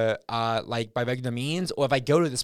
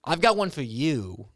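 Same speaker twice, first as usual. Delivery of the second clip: slow, measured mock radio voice; lightly put-on broadcaster delivery. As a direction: draw it out like a radio host. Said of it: "I say in my radio voice".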